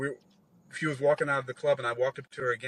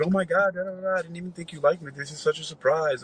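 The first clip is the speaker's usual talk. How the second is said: imitating her gushing surprise, pitched up; mock-flustered girl, high and quick; flustered delight; 4 semitones higher than usual. Imitating the woman thrilled by his gift, flustered. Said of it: "She's all flustered".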